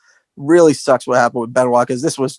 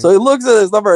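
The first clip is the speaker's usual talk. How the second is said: normal talking voice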